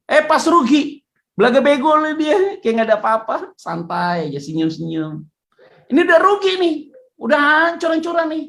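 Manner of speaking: high and loud, exasperated; indignant rant. Real, not acted. Preacher fuming at the investor who shrugs off losses, high and loud. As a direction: vent the frustration at the smug partner.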